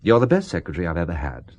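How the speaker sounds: mean it, quietly; serious. Acted. Boss quietly and sincerely reassuring his secretary. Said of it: "then I'll be serious".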